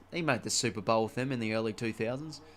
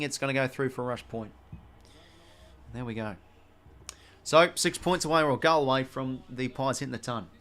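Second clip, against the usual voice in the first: play-by-play commentary. Acted. Gamer calling his footy match, brisk commentary. Calls the game he plays.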